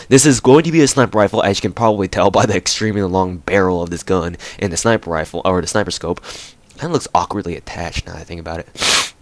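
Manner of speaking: stuffy, sniffling while talking; sniffly sick voice. Real, not acted. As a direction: talk with a runny nose. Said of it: "sorry about my sniffling".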